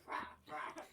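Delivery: mock fighting growls.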